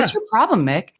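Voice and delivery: half-hearted imitation of a defensive boxer; Rocky with attitude. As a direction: toss it back with mild attitude. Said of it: "he actually has, like, an attitude when he says that".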